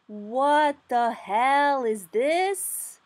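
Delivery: lauter, sehr gedehnt, fassungslos; stunned exasperation. Real, not acted. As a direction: drag it out, appalled at the chart. Shocked at the chart.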